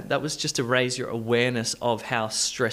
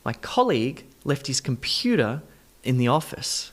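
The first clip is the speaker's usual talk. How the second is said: colleague, computer, office: COL, PU, OF stressed; word stress demonstration. Shown as a demonstration. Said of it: "Let's do stress position".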